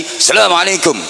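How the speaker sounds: high-pitched Arab-style greeting. Shown as a demonstration. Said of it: "dengan nada tinggi".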